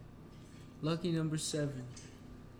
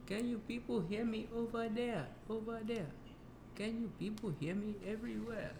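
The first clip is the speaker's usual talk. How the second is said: calling down a hallway; 8 semitones higher, 8 dB quieter than usual. Pretend. Mic check calling to the room.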